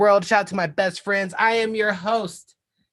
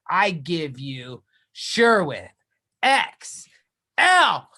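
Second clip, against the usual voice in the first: ring announcer. Acted. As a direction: build up to the guest's name. Announcing the guest.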